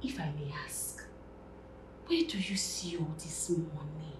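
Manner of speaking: hushed, confidential question; quiet, polite probing; discreet asking. Acted. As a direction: drop to a soft, near-whispered enquiry. Coy question about wealth.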